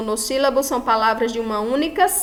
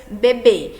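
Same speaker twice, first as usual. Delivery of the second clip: "bebê" with the second syllable BÊ stressed; final-syllable stress; 4 dB louder than usual. Shown as a demonstration. Teacher giving an example of an aguda, "bebê" with final stress. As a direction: land firmly on the last syllable of "bebê". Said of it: "A última sílaba mais forte".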